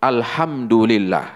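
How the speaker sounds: "Alhamdulillah" with the wrong H letter swapped in. Shown as a demonstration. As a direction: demo of the letter swap. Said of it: "Ini haknya diganti H". (contoh salah "Alhamdulillah")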